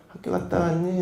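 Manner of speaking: put-on mother greets the child like any ordinary day; breezy nonchalance. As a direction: act as if nothing happened. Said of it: "아무렇지도 않은 거예요".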